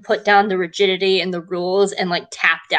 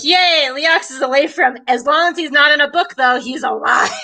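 mock cheer; 5 semitones higher than usual. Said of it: "I'm just like".

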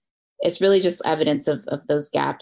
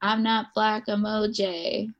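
higher-pitched, drawn-out mocking quote; derisive quote; 6 semitones higher, 4 dB quieter, slower than usual. Rapper throwing O J's words back at him, derisive. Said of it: "derisively quoting O J's words back".

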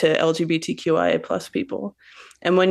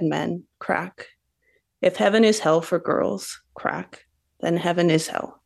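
poetry reading. Acted. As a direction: let each image land, then pause. Poet reads her own poem.

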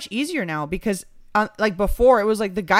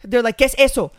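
confused Colombians; 5 semitones higher, 5 dB louder than usual. Retold or imitated. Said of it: "it's like".

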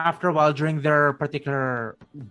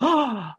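crowd gasp; 11 semitones higher, 3 dB louder than usual. Retold or imitated. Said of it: "you hear people cheer and go like".

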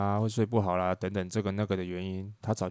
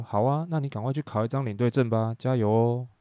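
offhand, upbeat cheering on, a little louder; breezy encouragement; 3 semitones higher, 4 dB louder than usual. Retold or imitated. Tour leader brushing off envious friends, breezily encouraging.

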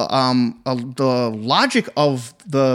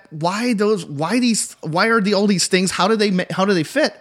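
higher-pitched run of baffled questions; retold inner questioning, pitched up; rattled-off puzzling; 4 semitones higher than usual. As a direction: rattle off your puzzled thoughts, restarting as you go. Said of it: "I was rattling in my head".

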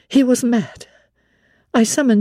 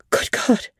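shocked whisper. Acted. Reacting to gruesome news.

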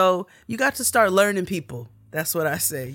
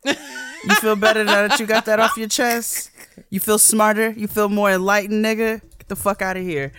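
high, laughing mock question; mock them with a laughing sneer; mocking retort; 5 semitones higher than usual. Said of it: "my favorite response is".

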